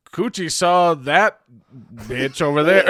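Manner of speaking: slow, high and loud Southern redneck drawl. Retold or imitated. Cohost mimics a redneck comedian, loud drawl. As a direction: ham up a redneck comic, stretching each word. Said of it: "and you're like".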